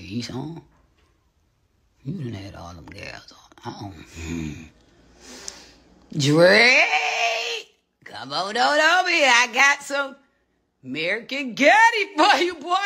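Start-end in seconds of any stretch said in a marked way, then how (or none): 2.0-4.6 mock crying. 6.2-12.8 much higher, louder sing-song coaxing; high sing-song invitation to a rapper; high coaxing call. Pretend. Calling out to a rapper.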